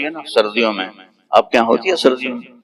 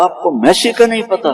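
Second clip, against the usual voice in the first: put-on the boy's voice; 8 semitones higher than usual. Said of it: "کہنے لگا".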